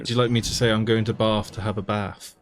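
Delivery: mock British accent with a broad bath; exaggerated British vowels. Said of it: "this is so fancy".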